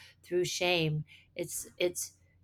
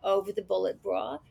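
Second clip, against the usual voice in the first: lightly voiced New Jersey accent; 3 semitones higher than usual. Actress describing her Jersey character's figure in a light Jersey accent. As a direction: lean into a Jersey lilt, fond of her. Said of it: "I love how you say it".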